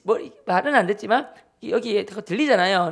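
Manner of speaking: normal talking voice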